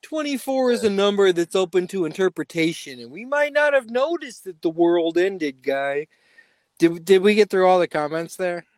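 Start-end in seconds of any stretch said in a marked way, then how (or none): 0.0-6.1 conspiracy guy voice. Retold or imitated. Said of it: "my conspiracy guys say".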